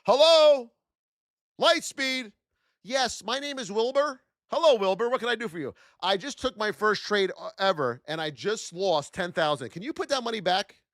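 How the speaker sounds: lightly voiced desperate caller; phone call to broker. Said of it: "Let me call my broker up".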